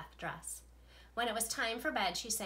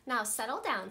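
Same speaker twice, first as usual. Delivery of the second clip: sweet voice; 5 dB louder than usual. Acted. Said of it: "said Miss Nelson in a sweet voice".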